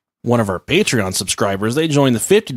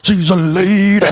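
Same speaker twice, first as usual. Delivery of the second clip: mock high posh voice; 7 semitones higher, 4 dB louder, slower than usual. Echoing the radio bit.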